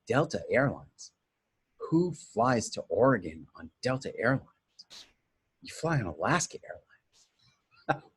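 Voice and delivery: scoffing, teasing imitation ending in a laugh; mock her disbelief lightly; mocking wife. Wife making fun of his airline choice, lightly mocking. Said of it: "how she made fun of me".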